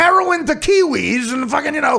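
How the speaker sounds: whiny plea, pitch jumping up; mock pleading. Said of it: "I'm like".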